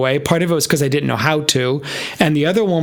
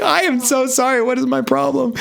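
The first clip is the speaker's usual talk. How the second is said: imitating Sharon; 9 semitones higher than usual. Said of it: "She's like".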